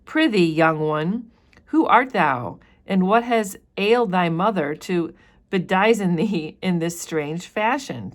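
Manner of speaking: teacher reading the minister's question to Pearl; lightly voiced questioning minister.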